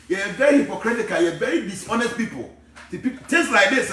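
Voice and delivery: impassioned preaching. Real, not acted. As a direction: preach it hard, denouncing the congregation. Impassioned denunciation to livestream followers.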